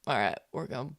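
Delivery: whispered quickly to herself with a laugh; whispered resolve. Acted. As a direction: push the feeling down, hushed. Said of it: "closing her eyes to just be like".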